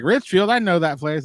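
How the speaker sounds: high-pitched retold burst of recognition; mock-excited "I know that!". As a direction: act out spotting a familiar name, pitched high. Retells spotting a friend's hometown.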